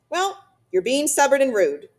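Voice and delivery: loud, high, pointed telling-off; scolding. A narrator's reading. Missus Beaver tells her husband off, pointed scolding. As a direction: tell him off firmly, pitch lifted.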